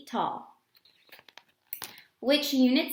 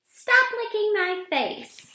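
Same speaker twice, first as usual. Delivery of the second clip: high, slow giggly protest; laughing protest; 10 semitones higher, 5 dB louder than usual. Acted. Girl protesting a dog licking her face, slow and laughing. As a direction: push the dog away, half laughing.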